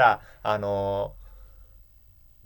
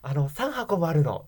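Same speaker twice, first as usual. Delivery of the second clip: timid Suzu; 4 semitones higher, slower than usual. Retold or imitated. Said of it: "っつって".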